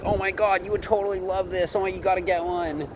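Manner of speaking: high, rushed over-the-top sales gush; hyped-up gushing. Acted. Pushy salesman gushing to a prospect, hyped up. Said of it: "I'm not all hyped up".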